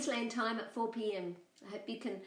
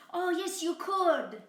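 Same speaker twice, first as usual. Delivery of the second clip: high bleating lamb voice, louder; 10 semitones higher, 6 dB louder than usual. Acted. Lamb tricking the coyote, high bleating voice. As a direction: bleat the words like a little lamb. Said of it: "cried Boragita".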